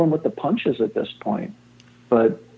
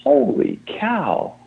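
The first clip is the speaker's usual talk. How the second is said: slow, high stunned gasp of awe; amazed under his breath, way up high; holy cow; 10 semitones higher, much slower than usual. Retold or imitated. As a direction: let the awe stretch out slowly. Stunned by young man's story.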